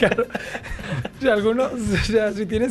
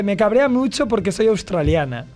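laughing quote. Retold or imitated.

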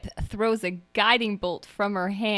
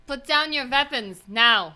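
mild yell, pitched up; yelled command; 5 semitones higher, 4 dB louder than usual. Acted. Agata orders the guards to disarm, mild yell. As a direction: order them firmly with raised voice. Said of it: "Agata yells out".

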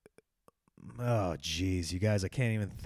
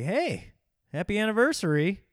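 mock celebration; 7 semitones higher than usual. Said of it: "It sounds like they're celebrating it".

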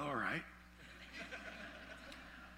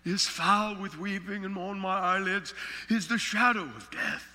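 scripture reading. Acted. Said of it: "He said in chapter sixteen".

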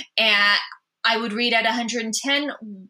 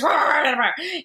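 Charlie Brown teacher wah; 4 semitones higher than usual. Retold or imitated. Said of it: "all I hear is".

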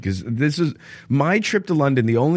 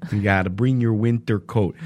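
put-on North Dakota accent. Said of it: "that's my one for North Dakota".

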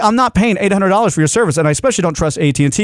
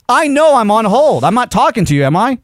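exasperated; 7 semitones higher than usual. Retold or imitated. Customer on hold venting at phone rep, exasperated. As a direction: spell it out to someone not getting it. Retort to rep's repeated hold notices.

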